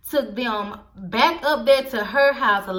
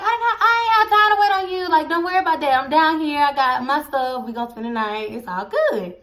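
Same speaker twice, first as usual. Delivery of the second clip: mock brush-off, fast; 4 semitones higher than usual. Brushing off the friend's question.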